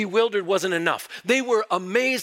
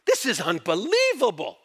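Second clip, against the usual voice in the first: openly amazed, swelling on the middle word; astonished crowd. Acted. Preacher voices the crowd at Pentecost, astonished. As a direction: marvel aloud as a stunned onlooker. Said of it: "express how astonished they were".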